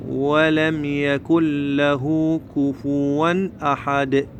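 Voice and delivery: slow, measured chant with drawn-out vowels; Quran recitation. Shown as a demonstration. Teacher repeats it all for learners' benefit, slow recitation. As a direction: recite the whole sura slowly, bouncing each final dal. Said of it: "هعيدها كاملة إن شاء الله".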